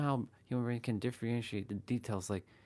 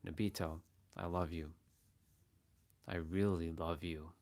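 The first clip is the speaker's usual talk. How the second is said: a touch of hidden menace; loving words with a dark intent; black magic; 4 semitones lower than usual. Shown as a demonstration. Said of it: "some black magic now".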